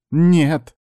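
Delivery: high, loud, stretched refusal; drawn-out no. A narrator's reading. Niece rejects her uncle's understanding, drawn-out. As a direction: draw out the denial. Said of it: "протянула та".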